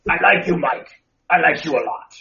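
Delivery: lightly voiced Venom; mock menacing symbiote. Shown as a demonstration. Teasing cohost Mike in a light Venom voice. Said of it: "I swear I was doing the Venom voice".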